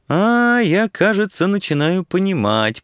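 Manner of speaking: high-pitched, beaming realisation; dawning delight. A narrator's reading. Student finally catching on to the reporter, beaming. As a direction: let a delighted "aha" lift the voice high. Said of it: "просиял Ярченко".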